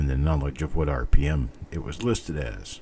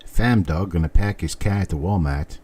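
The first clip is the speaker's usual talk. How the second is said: Massachusetts accent. Shown as a demonstration. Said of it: "like, a Massachusetts accent".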